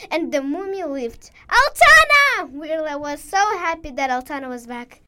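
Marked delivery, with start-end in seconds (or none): 1.5-2.5 high, loud, drawn-out call of the name; joyful call. Acted. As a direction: cry out happily to the friend. Friend returns.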